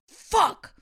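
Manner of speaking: loud, high furious curse; angry curse. Retold or imitated. Wife imitating husband's golf outburst, loud and high. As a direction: explode at a bad shot. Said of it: "you were like".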